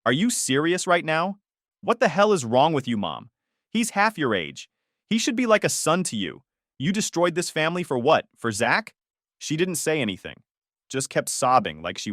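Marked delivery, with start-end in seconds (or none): 0.0-8.9 raised, heated accusing voice; angry confrontation. Retold or imitated. Son confronting his mother over the affair, heated and raised. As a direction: throw each question at her in outrage.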